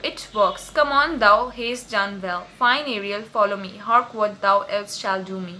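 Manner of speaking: slow, deliberate Shakespeare recital; teacher reading a play aloud to students; slow dramatic reading. Acted. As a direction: read the verse slowly, weighing each word. Reads Prospero's lines slowly.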